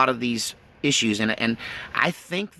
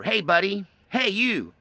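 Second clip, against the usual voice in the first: deer talk meaning; 7 semitones higher, slower than usual. Retold or imitated. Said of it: "That's deer talk for".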